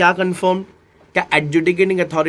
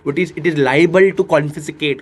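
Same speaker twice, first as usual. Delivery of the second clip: very slow, every word spaced; teacher spelling out a legal term; slow legal reading; much slower than usual. Shown as a demonstration. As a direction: read the legal phrase out slowly. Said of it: "Confiscate का मतलब है".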